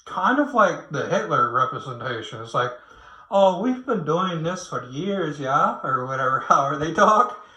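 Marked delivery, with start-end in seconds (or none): 3.3-5.8 slow, badly faked Canadian accent; horrible Canadian accent. Mocking people who excuse old practices, badly faked Canadian accent. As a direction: attempt a Canadian accent and miss, drawn out. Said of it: "That was probably a horrible, like, Canadian accent".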